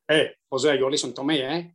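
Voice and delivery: put-on Spanish stroke Yorkshire accent; Sevi. Caddie retelling Sevi ordering his partner about, Spanish-Yorkshire accent. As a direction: imitate a Spanish golfer through a Yorkshire accent. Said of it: "your Spanish stroke Yorkshire accent".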